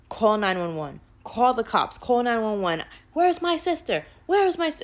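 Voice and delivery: urgent panic, shouting for help; panicking sister. Retold or imitated. Sister sees her face and panics, loud frantic calls. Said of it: "she starts panicking".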